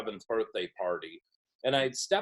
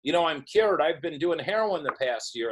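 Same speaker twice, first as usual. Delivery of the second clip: higher, breezy retold confession to his wife; upbeat announcement; 4 semitones higher than usual. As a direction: announce it brightly over the phone, pitched up. Calls his wife with cheerful announcement.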